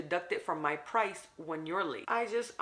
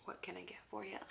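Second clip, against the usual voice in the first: barista's question; 3 semitones higher, 13 dB quieter, faster than usual. Retold or imitated. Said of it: "was like".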